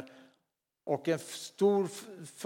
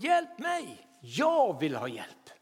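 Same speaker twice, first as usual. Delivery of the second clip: desperate cry for help; slower than usual. Retold or imitated. Preacher voicing the believer's cry to Jesus, pleading. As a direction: cry it out like a drowning man. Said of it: "Stiger det ropet".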